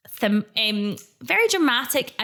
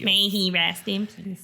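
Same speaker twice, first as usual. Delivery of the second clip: solemn reverent; 3 semitones lower, slower than usual. Retold or imitated. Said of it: "I'm like".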